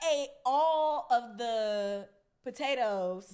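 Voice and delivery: put-on drawn-out, reluctant kid confession; stretched-out admission; slow mock confession. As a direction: own up slowly, word by word. Child's reluctant confession to dad.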